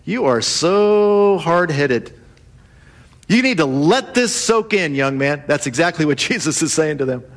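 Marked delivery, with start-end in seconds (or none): 0.0-5.4 grandma scolding. Retold or imitated. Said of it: "My grandma used to say to me".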